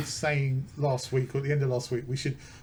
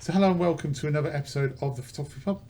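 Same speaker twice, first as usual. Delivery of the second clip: podcast intro; faster than usual. Acted. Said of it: "Let me start it again".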